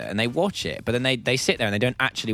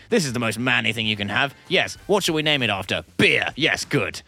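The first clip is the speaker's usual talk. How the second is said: lightly voiced self-important committee man; men's committee. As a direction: pronounce it like a solemn manly verdict. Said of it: "the men committee got together".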